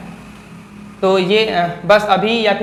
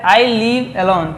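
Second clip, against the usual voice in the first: slow example reading; much slower than usual. Shown as a demonstration. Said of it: "reads example sentence slowly".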